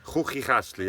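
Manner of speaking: Chuchichashli with throaty ch sounds; Swiss German word. Shown as a demonstration. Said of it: "this word that no one can actually, uh, say".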